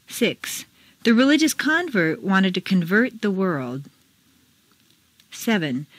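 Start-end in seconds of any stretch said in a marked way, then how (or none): 1.0-3.8 first "convert" as CONvert, second as conVERT; contrasting word stress. Shown as a demonstration. Teacher reads exercise, contrasting CONvert with conVERT. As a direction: stress CONvert for noun, conVERT for verb. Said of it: "Mark the intonation".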